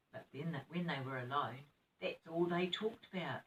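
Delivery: gentle bedtime story reading; reading to children. Acted. Nana reading story aloud.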